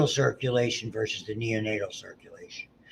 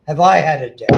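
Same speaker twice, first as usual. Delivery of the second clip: put-on baby voice; 4 semitones higher, 12 dB louder than usual. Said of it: "you hear the baby talk, you go".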